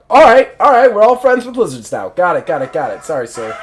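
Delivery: a hint of a flustered soldier; hasty backing down. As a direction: backpedal fast, then mumble sorry sir. Soldier backs down to superior.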